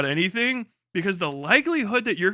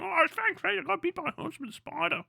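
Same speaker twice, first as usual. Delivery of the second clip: higher, off-hand put-on voice; mock casual Aussie; 5 semitones higher, 5 dB quieter than usual. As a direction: toss it off like a shrugging Aussie. Mocking casual Aussie after spider bite.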